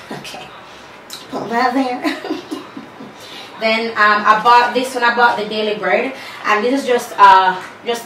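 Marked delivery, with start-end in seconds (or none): 0.0-2.6 laughing. Real, not acted. Laughing while packing.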